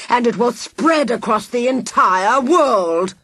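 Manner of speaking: villain relishing his poison; menacing villain. Acted. Villain reveals plan.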